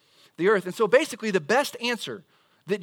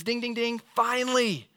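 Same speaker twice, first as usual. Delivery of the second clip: playful; 5 semitones higher than usual. Pretend. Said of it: "Jesus looks at you and says".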